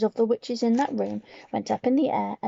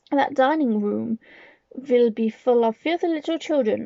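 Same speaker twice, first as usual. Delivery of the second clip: commanding witch with a menacing edge. Acted. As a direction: lay down the rules like a wicked queen. Grand High Witch addresses witches.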